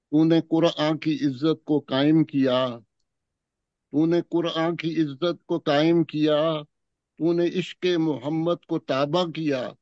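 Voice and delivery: measured, solemn poetry recital; stately nazm recitation. Acted. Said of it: "ایک نظم پیش کروں گا".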